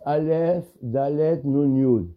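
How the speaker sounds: Aleph, Dalet, Nun, Yud, one letter name at a time; épelé lettre par lettre. Shown as a demonstration. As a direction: spell it out, each letter name set apart. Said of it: "quand on le prononce". (énoncé lettre après lettre)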